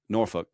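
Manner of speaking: "Norfolk" as "NOR-fuk", short second syllable; English pronunciation. Shown as a demonstration. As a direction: reduce the end of "Norfolk" to "fuk". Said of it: "in England they say".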